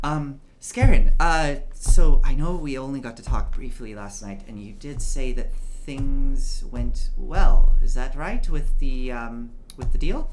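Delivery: a proud patriarch addressing his son; stately older gentleman. Acted. Older gentleman speaks to Anders.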